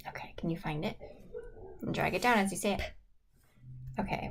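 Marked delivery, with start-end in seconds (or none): 0.1-2.8 soft unvoiced whisper. Real, not acted. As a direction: whisper the question gently. Teacher whispers instruction.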